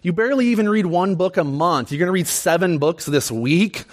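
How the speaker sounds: lightly imitated sassy disbelief; wife's sass. Wife teasing pastor about his pile of books, light sass. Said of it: "give me a little bit of sass".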